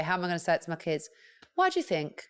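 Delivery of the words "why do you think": nice way. Shown as a demonstration. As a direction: coax it out of a child kindly. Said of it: "in a nice way".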